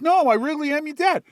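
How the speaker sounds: high, loud insistence; insistent shout. Acted. Robot dad insisting to his son, loud insistent shout. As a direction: shout the claim to win the argument.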